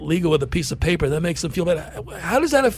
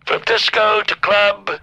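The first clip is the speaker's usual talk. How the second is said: lightly voiced Trump, boastful and deliberate; a hint of Trump bragging to the crowd; Trump impression. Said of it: "Right, Fake Trump?".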